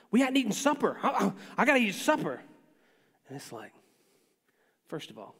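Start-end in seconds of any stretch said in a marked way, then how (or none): 0.1-2.4 whiny little son. Retold or imitated. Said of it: "he'll be like".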